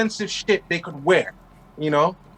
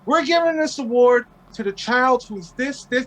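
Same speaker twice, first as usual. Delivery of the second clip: announcer voice; 6 semitones higher than usual. Retold or imitated. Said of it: "They're like".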